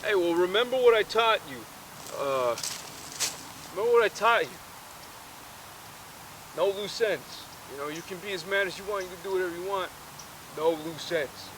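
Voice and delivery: a father passing on his rule; dad's advice. Retold or imitated. Dad lecturing his son, lightly voiced. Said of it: "the dad's like".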